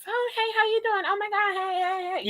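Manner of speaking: high, sugary greeting voice; exaggerated high sweet hello; overly nice neighbor. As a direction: gush like a fake-friendly neighbor. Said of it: "not sounding like that".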